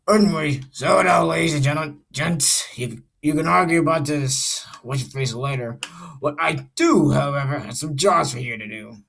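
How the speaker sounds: a hint of a boss making announcements; Mister Davis. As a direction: address the staff as the director handing out jobs. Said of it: "I'm gonna be doing Mister Davis's voice".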